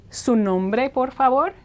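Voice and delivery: polite rising question, lifted on favor; customer service request. Pretend. Clerk asks a customer for their name, polite rising request. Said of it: "you're in a customer service situation".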